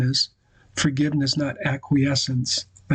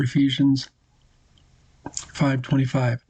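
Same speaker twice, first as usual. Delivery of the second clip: measured, deliberate reading of a passage; reading a quote aloud. Acted. Preacher reading Lewis to the congregation, measured and deliberate. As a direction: read it like scripture, letting it land.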